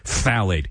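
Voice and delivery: "Phthalate" with an exaggerated spraying ph-th; overdone, spluttered start on Phthalate; spitty PHTHALATE. Shown as a demonstration. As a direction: spit out the first consonants of Phthalate. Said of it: "when you say that word".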